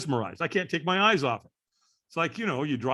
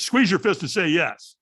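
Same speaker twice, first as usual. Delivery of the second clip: loud acted coaching order; forceful, raised-voice instruction; trainer's command; 6 dB louder than usual. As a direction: imitate a trainer calling out instructions. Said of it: "and the trainer goes".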